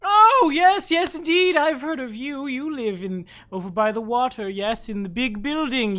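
put-on high, excited old NPC voice; high-pitched eccentric elder; eccentric old creature.

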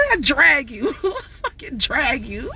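taunting through real laughter; gleeful laughing jab. Real, not acted. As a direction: laugh it out while mocking him.

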